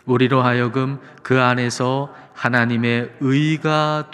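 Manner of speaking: drawn-out reading in unison pace; congregational scripture reading. Real, not acted. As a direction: read the verse aloud for a congregation to follow. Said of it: "다 같이 한번 읽어보겠습니다".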